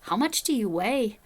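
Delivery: weaker, slow attempt at a Northern Irish accent. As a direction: imitate a Northern Irish accent, not quite convincingly. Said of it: "See, I did worse that time".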